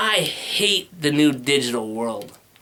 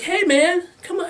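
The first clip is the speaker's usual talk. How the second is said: workout video coach. Retold or imitated. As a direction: cheer like an eager fitness instructor. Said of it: "They encourage you. They're like".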